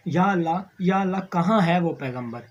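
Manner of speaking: loud crying out to God; anguished plea. Acted. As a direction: call up to heaven in despair. Buried girl cries out to God.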